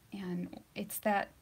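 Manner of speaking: whispering. Acted. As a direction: whisper it slowly. Describing ASMR, whispers it.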